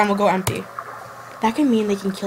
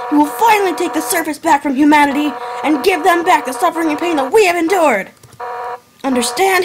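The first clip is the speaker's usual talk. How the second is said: man doing a woman's voice, higher and fierce; girl punk voice; 5 semitones higher than usual. Pretend. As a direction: play a tough punk girl making a threat. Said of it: "I gotta get my girl punk voice on".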